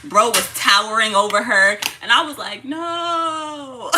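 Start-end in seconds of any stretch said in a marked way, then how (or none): 2.6-3.9 high, drawn-out whimpered protest; playful tearful whine; mock wail. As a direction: wail it like a hammed-up sob. Acts out dread of son growing.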